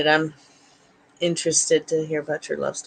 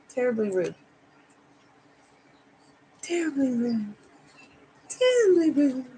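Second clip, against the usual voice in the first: mock scolding; 5 semitones higher than usual. Scolding dogs, repeated rising.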